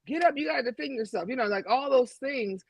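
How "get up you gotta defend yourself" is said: lightly voiced stern father, a little higher; half-acted parent telling a fallen boy get up; a hint of a tough-love dad; a father telling his boy to toughen up. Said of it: "these men have been taught".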